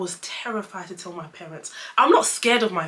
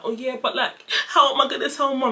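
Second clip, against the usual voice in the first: higher mock-tearful whine, half laughing; retold tearful worry; 5 semitones higher, 3 dB louder than usual. Daughter asking dad about telling Mom, mock-tearful. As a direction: imitate fretting through tears. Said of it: "I was crying".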